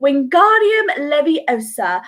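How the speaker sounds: lightly voiced Hermione, slow and careful; a hint of Hermione in charms class; classic Hermione. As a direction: pronounce it precisely like a swot. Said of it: "the classic Hermione Granger".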